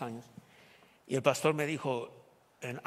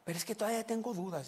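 imitating the sister; 7 semitones higher than usual. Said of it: "dijo ella así".

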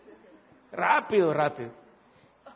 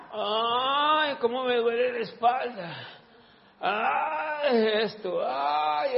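mock whine of pain; 2 semitones higher, much slower than usual. Preacher imitating aching complainers, mock whimper. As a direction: whimper like a hypochondriac.

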